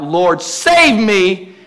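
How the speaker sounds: slow, drawn-out plea; cry for help. Acted. Sinking Peter calling to Jesus, crying out. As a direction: stretch it into a mild mock cry. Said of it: "cried out".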